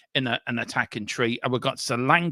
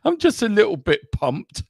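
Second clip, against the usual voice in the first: excited; 7 semitones higher, 5 dB louder than usual. Real, not acted. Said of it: "really pumped for this game, um, as you can tell".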